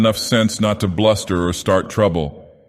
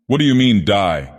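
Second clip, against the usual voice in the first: a sharp, raised snap on what; testy snarl; 3 semitones higher, 3 dB louder than usual. Acted. Gang boss snarls at the henchman's ghost story, testily. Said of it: "snarled Rigetti testily".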